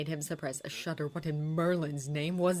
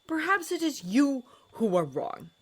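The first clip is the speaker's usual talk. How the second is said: drawled; 10 semitones higher, 6 dB louder than usual. A narrator's reading. Snape turning it back on Holmes, drawling. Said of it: "Snape drawled".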